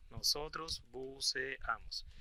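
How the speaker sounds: Nosotros buceamos said very slowly; slow model answer. Shown as a demonstration. Teacher gives the answer slowly to students. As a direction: dictate Nosotros buceamos word by word. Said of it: "slow model translation".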